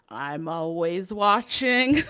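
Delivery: slow, drawn-out watching line; lightly voiced monster; slow creepy quote. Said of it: "Monsters, Inc, you know".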